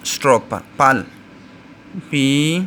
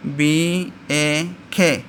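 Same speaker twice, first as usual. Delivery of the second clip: slow spelled sounds; 2 semitones higher, much slower than usual. Shown as a demonstration. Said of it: "बैक".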